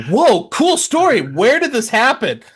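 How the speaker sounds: high, slow sarcastic awe. Retold or imitated. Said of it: "Everyone's like".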